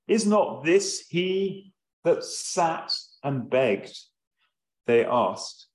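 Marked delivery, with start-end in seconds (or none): 0.1-4.0 mildly astonished question, slow and deliberate; very surprised. Acted. Neighbors asking about the blind beggar, mildly surprised. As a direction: read the question slowly with a touch of surprise. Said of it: "must have been very surprised".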